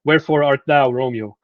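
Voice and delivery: mock-declaim like a Romeo balcony speech; theatrical Shakespeare line. A lecturer quoting Shakespeare with a hint of stage flair. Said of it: "like in Shakespeare, where he said".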